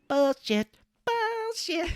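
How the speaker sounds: high strained shouted denial; hammed-up outburst; mock Cage yell. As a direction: spit the word out twice.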